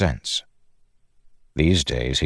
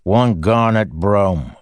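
den keeper; 4 semitones higher, 4 dB louder, slower than usual. Acted. Den keeper demands payment.

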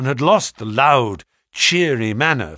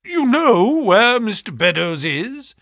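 slow, high anxious question; alarmed; 10 semitones higher, 4 dB louder, slower than usual. A narrator's reading. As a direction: press him, alarmed. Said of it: "cried Trevor".

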